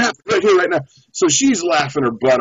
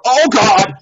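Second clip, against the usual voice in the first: sudden higher outcry; acted sting shock; 6 semitones higher, 5 dB louder than usual. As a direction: act out being stung mid-thought. Acts out moment of sting.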